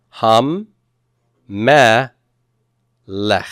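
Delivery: "Hum, meh, lech" as three separate syllables; Hum... meh... lech, one beat each. Shown as a demonstration. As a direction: break it into Hum, meh, lech with clear pauses. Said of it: "I have three syllables here".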